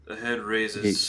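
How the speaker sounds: game master narration. Acted. GM repeats the scene line.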